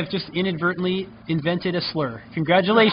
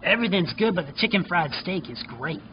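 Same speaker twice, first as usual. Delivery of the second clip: smoker's rasp. Acted. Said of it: "she's got that smoker's voice".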